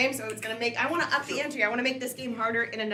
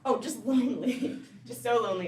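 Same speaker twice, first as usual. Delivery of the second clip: mock loneliness; 3 semitones lower than usual.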